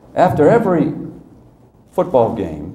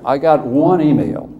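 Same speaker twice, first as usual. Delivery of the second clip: louder, higher gruff coach voice; a mock athletic director complaining; hammed-up old coach voice; imitating Skip; 5 semitones higher, 6 dB louder than usual. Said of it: "he said".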